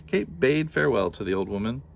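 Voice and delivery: "bade" said as the chosen word; corrected to bade. Shown as a demonstration. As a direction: settle on "bade". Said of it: "We'll say bade".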